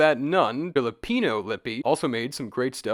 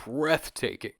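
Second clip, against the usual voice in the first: ordinary talk, nothing marked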